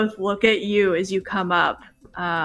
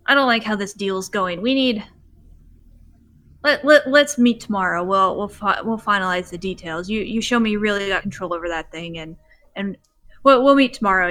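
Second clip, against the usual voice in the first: a hint of an uneasy moonshiner, rushed and stammering; backing out of the deal, talking fast and louder; nervous moonshiner; 5 dB louder, faster than usual. Moonshiner backing out of the deal with Scout, rushed and nervous. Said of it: "he says".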